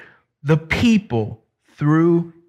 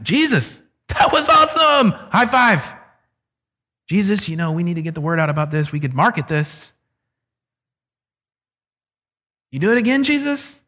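high, gushing, shouting that was awesome; mock excited disciples; 3 semitones higher, faster than usual. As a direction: play a starstruck fan high-fiving Jesus. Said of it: "what is their actual reaction".

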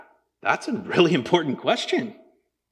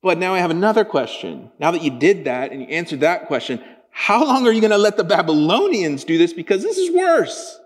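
louder, pressing follow-up question; Habakkuk arguing with God; exasperated prophet; 2 semitones higher, 3 dB louder than usual. Retold or imitated. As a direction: push back at God, getting heated. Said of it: "now he's like".

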